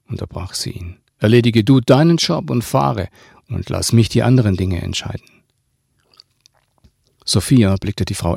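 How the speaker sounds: measured read-aloud with long pauses; audiobook-style narration with voiced dialogue; story narration. Reads own novel aloud.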